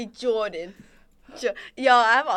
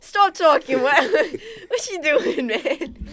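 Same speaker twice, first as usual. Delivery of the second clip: put-on Jersey accent; 4 semitones higher, much slower than usual. Jordan from Jersey telling a friend to stop, Jersey accent. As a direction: play a brash Jersey accent. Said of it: "I'm from Jersey".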